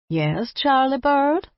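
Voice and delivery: high, slow sweet granny voice; grandmother voice. Acted. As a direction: answer like a doting grandmother. Grandmother answering.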